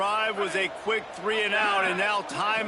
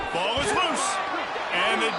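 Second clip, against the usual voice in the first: excited call; 3 semitones higher than usual. Real, not acted. Live play-by-play, fumble recovered.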